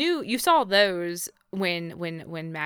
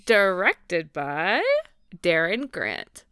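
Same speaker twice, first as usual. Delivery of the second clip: broadcaster announcer voice; 4 dB louder, slower than usual. Pretend. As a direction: announce the credit grandly, drawn out like a broadcaster. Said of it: "broadcaster announcer voice".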